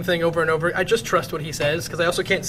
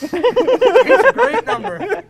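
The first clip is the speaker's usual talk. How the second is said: mouth full; 10 semitones higher, 6 dB louder than usual. Real, not acted. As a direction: talk round a full mouth. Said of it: "He's just chipmunking it".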